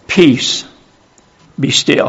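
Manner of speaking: hushed, soft "Peace, be still"; whispered command. Acted. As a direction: whisper it as if calming a storm. Spirit calms the storm.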